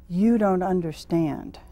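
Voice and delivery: slow, deliberate imitation of an official; veiled warning. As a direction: spell out the implied threat slowly. Voices officials' veiled, implied threat.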